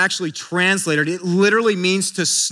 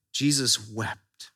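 quieter echo; 10 semitones lower, 7 dB quieter, much slower than usual. Shown as a demonstration. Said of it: "It says what?".

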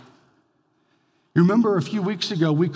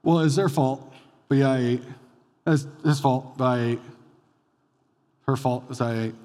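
mildly grudging admission, tailing lower; reluctant confession; 3 semitones lower than usual. Acted. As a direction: own up half-heartedly, shifting the blame. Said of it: "a reluctant confession".

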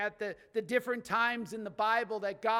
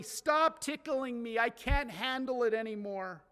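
mock loud proclaiming. Tickled child demanding aunt or uncle stop, proclaimed loudly. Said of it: "you were proclaiming it loudly".

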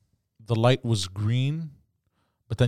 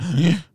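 sharp high intake of breath; imitated snoring snort; loud snore imitation; 5 semitones higher than usual. Sleeper so loud girlfriend got worried, imitated snore. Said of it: "It was like a jet".

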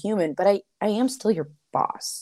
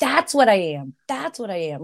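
happy exclaim; 3 semitones higher than usual. Retold or imitated. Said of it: "I was so happy 'cause I was like".

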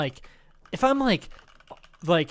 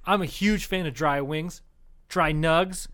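mock aggressive. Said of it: "I'm gonna be really aggressive".

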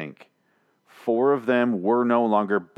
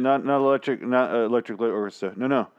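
executioner bossing Siri; 4 semitones higher than usual. Acted. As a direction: bark orders at a useless voice assistant. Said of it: "here's my impression of an executioner now".

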